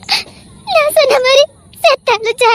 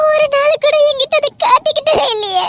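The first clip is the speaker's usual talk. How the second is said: higher, a tearful laugh on every word; half laughing, half crying in disbelief; laughing through tears; 5 semitones higher than usual. Acted. (கண்ணீருடன் சிரிப்பு)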